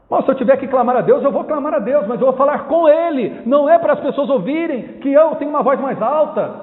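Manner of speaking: impassioned preaching. Real, not acted. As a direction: drive the point home from the pulpit. Preacher insists on addressing God.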